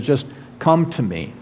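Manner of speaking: soft, reassuring welcome; gentle invitation. Acted. Jesus offering relationship instead of religion, gentle invitation. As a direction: ease off softly, inviting them closer.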